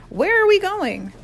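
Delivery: high, slow, stretched-out question; loud, high-pitched confused wail; bewildered cry. A narrator's reading. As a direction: call it out while being dragged along. Boy being dragged out the door.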